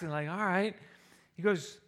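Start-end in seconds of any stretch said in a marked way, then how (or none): 0.3-0.8 calm and relaxed. Acted. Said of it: "I'm kinda calm, just kinda relaxed".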